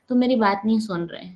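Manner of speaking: gentle, even complaint; calm soft tone. Shown as a demonstration. Teacher showing the calm way to tell someone, said gently. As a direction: say it softly, without blame. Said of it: "मैंने इस tone में बोला है".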